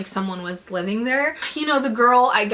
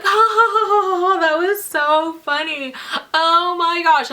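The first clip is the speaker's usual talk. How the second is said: higher, louder imitated cackle of the girls; mocking laugh; 8 semitones higher, 5 dB louder than usual. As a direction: ham up their giddy laughter. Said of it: "they're laughing".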